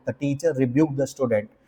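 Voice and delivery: "rebuked" said slowly and clearly in a slow model sentence; slow dictation. Shown as a demonstration. Teacher reading an example sentence to class, slowly. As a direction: read the example slowly for students to note. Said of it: "slow model sentence".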